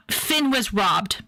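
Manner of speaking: slow, mournful; slow mock grief; slow lament. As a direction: drag it out like a grieving fan. Repeated lament.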